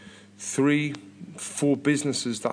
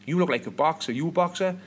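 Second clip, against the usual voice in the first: higher-pitched, badly faked Southern American; bad American accent; 5 semitones higher, 3 dB louder than usual. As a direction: do a terrible Southern US accent, lifting into the question. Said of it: "This is the worst accent ever".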